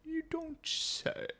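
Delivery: a hint of a slow, stately papa bear; lightly drawn-out old gent. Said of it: "You sound like a Papa Bear".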